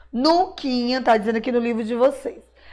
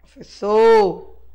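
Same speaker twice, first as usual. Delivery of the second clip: "Professor" said slowly, syllable by syllable; "Professor" slowly and clearly for children; slow dictation; 3 semitones lower, 5 dB louder, much slower than usual. Shown as a demonstration. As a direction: spell out "Professor" slowly for the class.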